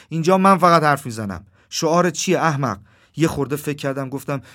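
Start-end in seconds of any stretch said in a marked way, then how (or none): 0.1-2.8 loud, raised voice of command; loud, impatient demand; bossy shout. A narrator's reading. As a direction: shout down the others as the boss. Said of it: "داد زد و گفت".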